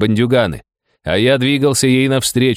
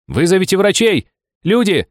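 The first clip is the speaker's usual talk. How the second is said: full-throated shout; 11 semitones higher than usual. Acted. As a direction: bellow for help at the top of your lungs. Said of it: "крикнул я во всё горло".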